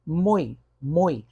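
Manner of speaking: mui said in one single emission of voice; teacher showing how mui comes out in one breath; pronunciation demo. Shown as a demonstration. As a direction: say mui as a single sound, U strong and I weak. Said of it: "Sai só numa emissão de voz".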